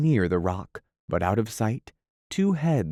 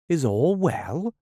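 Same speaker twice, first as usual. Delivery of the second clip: timid; 8 semitones higher than usual. Acted. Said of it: "they asked timidly".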